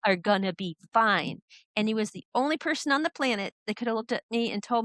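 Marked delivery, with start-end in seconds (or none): 0.0-1.4 slow, steady reassurance; reassuring mentor. Retold or imitated. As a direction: say it slowly so she believes it. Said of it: "He goes".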